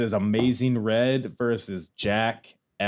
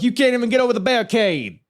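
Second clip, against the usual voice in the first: Dusty voice; 12 semitones higher, 5 dB louder, faster than usual. Retold or imitated. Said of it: "He's like".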